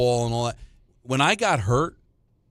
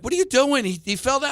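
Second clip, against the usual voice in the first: much higher-pitched imitation of mom; protesting mother; 10 semitones higher than usual. Wife objecting after their child fell, mock protest. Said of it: "Nancy's like".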